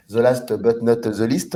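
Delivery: French speaker's playful English accent, a bit slow; slow, jokey English accent; mock English accent. Shown as a demonstration. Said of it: "avec mon accent anglais".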